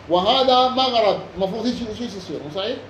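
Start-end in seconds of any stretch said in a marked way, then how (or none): 0.1-1.2 مغرب slow and higher, with short a after the ر; فتح الراء. Shown as a demonstration. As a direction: slowly say maghrab for مغرب. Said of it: "بالفتح". (مغرب بفتح الراء ببطء)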